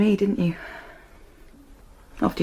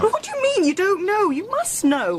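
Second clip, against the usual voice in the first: panicked disbelief; 10 semitones higher than usual. Acted. Wife learns of car fire.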